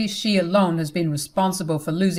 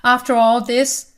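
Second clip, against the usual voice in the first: angry scream; 3 semitones higher, 4 dB louder than usual. Acted. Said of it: "literally screamed at her".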